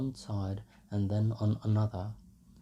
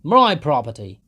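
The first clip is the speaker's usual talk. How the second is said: loud, higher angry cry; loud possessive outburst, higher; furious shout; 5 semitones higher, 14 dB louder than usual. A narrator's reading. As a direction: roar it as the drunken owner. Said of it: "shouted Mikolka".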